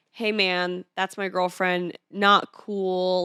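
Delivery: lighter tone. Retold or imitated. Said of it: "but in a lighter tone".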